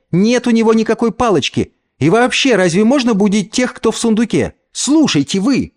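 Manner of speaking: put-on high, bossy child's voice; older girl scolding. A narrator's reading. Eldest girl scolds her frightened cousins, bossy. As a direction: hush the little ones sharply. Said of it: "цыкнула старшая".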